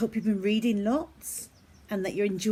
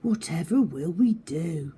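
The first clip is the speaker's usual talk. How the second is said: worried. Acted. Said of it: "worried Stan".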